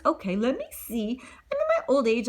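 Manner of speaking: put-on mumbled old lady whisper; whispering to herself. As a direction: whisper to yourself as you remember. Godmother mutters to herself.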